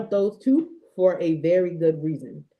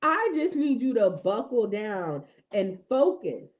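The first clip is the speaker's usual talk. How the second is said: God's admonishment; 6 semitones higher than usual. Retold or imitated. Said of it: "He's like".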